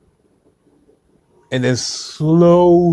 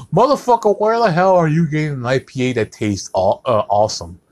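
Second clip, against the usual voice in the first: mocking IPA fan; 5 semitones higher than usual. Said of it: "And they go".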